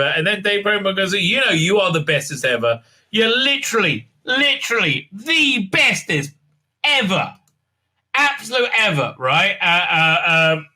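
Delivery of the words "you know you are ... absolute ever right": mock gushing praise.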